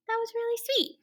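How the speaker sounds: a tender little whispered comment; whispered aside. Real, not acted. Reader's aside to children.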